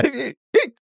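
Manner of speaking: two high squeaky hiccups; double hiccup. A narrator's reading. Shaman hiccups twice while grumbling, high and squeaky. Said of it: "начал икать".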